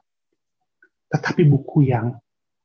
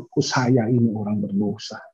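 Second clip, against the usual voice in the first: hushed confession; 4 semitones lower, 4 dB quieter than usual. Retold or imitated. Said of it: "Orang-orang menyadari".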